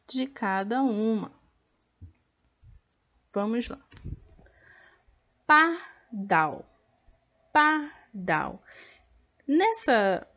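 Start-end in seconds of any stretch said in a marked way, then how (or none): 5.5-8.6 Pardal with the final dal pushed louder; teacher demonstrating the stressed syllable in Pardal; stress on the last syllable. Shown as a demonstration. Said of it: "nessa parte de sílaba tônica".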